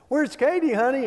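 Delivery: high, big mock-preacher call across the garage; booming pretend-preacher question; loud preacher's voice. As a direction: ham it up like a pulpit preacher calling his wife. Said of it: "in a loud preacher's voice".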